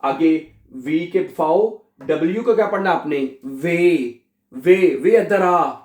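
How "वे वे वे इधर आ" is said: slow, calling वे like a Punjabi street call. Shown as a demonstration. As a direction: call someone over, Punjabi style. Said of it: "वे पंजाबी की तरह बिल्कुल". (पंजाबी अंदाज़ में पुकारना)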